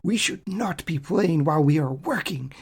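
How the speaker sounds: mock-solemn thick Hungarian accent; put-on Hungarian accent, indignant. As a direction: imitate an offended star with a heavy Hungarian accent. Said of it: "in just that Hungarian thick accent".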